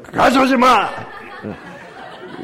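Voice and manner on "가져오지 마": sudden loud, high shout; harsh scolding. Shown as a demonstration. Preacher showing how not to read God's words, harsh shout. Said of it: "어떻게 읽으면 안 돼요?".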